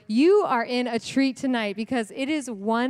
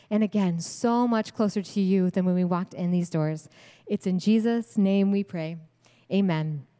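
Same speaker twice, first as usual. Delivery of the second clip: prayer voice; 3 semitones lower than usual. Real, not acted. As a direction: pray gently over the women in the room. Leads the congregation in prayer.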